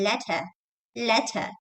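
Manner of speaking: British "letter" with no final R; British pronunciation. Shown as a demonstration. Teacher demonstrating British English, British "letter". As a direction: say "letter" the British way, crisp T, open ending. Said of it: "a British English".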